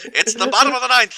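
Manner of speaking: sports announcer voice. Pretend. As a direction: announce it like a ballgame. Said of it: "he just wants the sports announcer voice".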